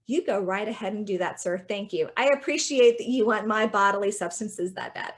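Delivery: mock-grateful, laying on the thanks; overdone sarcastic courtesy. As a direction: thank them with pointed sarcasm. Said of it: "you don't have to be that sarcastic".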